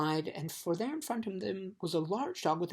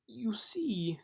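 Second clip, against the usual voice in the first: conciliatory; 6 semitones higher than usual. Acted. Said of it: "in a more conciliatory tone".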